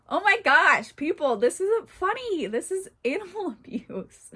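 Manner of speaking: high, laughing fake outrage; mock scolding through laughter. Real, not acted. To viewers, laughing, pretending the story isn't funny. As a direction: scold the audience while cracking up. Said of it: "I'm crying laughing at this right now".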